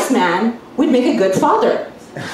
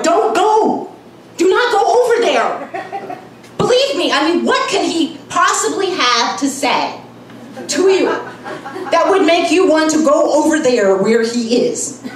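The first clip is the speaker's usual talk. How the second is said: higher urgent pleading warning; mock warning friend; 4 semitones higher than usual. Friend warning her not to go over, higher urgent plea.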